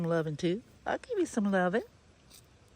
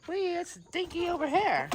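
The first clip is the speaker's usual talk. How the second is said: much higher excited squeal; 12 semitones higher, 6 dB louder than usual. Real, not acted. Owner spotting her pet Dinky, high excited squeal.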